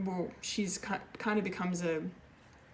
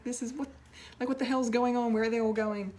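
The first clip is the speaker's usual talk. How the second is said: high, loud what-the-hell outburst; shocked disbelief; 5 semitones higher, 4 dB louder than usual. Retold or imitated. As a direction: replay your own stunned confusion. Retelling own shocked reaction.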